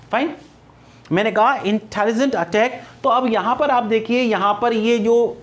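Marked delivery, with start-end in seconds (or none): 1.5-2.8 "इंटेलिजेंट अटैक" with the टे stressed in both words; stress on टे sounds. Shown as a demonstration. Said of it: "टे sound है ये stressed है". ("इंटेलिजेंट अटैक" के दोनों शब्दों में टे पर ज़ोर)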